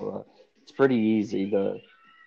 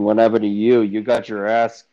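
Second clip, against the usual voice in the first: excited outburst; 7 dB louder than usual. Acted. In-character wrestling interview banter.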